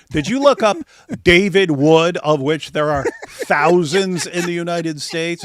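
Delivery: loud, laughing disbelief; incredulous laughing. Real, not acted. Streamer scoffing at a pending-case claim, incredulous laughing. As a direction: laugh through a drawn-out, incredulous question. Scoffs at the accusation against him.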